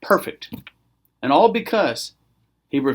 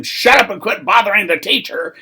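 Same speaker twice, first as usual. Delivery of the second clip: higher, annoyed telling-off; lightly acted impatient crowd; scolding crowd; 4 semitones higher, 3 dB louder than usual. Crowd telling the beggar to leave Jesus alone, mild scolding. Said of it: "Here's the crowd telling him".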